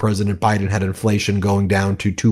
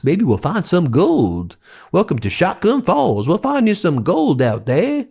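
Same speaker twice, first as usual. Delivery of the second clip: sing-song taunting sales pitch, climbing higher as it goes; mock huckster; 4 semitones higher than usual. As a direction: dangle the prize like a hammed-up con man, ever more cartoonish. Mocks presidency as a huckster's pitch.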